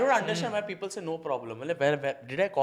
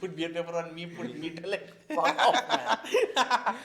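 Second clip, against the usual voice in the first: lightly put-on posh-English tourist voice; a hint of fake English swagger; mock English accent; 4 semitones lower, 5 dB quieter than usual. Friend demos the accent he'd use abroad, lightly put on. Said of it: "this is full accent".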